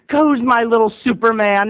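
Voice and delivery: lightly voiced proud mom; doting mom. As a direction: coo it to a little boy. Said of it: "And she said".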